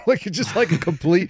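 high-pitched, laughing through the words; real laughing. Real, not acted. Officer telling interviewer how he stood like a gunfighter, laughing. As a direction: crack up mid-sentence, pitch jumping up.

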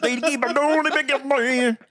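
a hint of Norwegian in singsong nonsense; mock Norwegian-sounding gibberish. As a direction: babble scripture with a fake Norwegian lilt. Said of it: "This does sound kind of Norwegian".

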